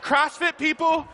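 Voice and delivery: slow, high, half-shouted punchline; hammed-up declaration; emphatic proclamation. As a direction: drag it out for the laugh.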